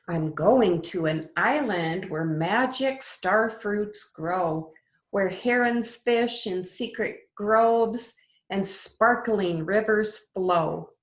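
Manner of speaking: lilting storybook read-aloud; sing-song picture book voice; reading to children. Acted. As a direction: read it like bedtime story time for little ones. Teacher reads picture book aloud.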